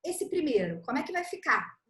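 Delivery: put-on teacher asking child. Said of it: "você vai perguntar pra criança".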